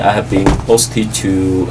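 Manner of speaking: usual speaking voice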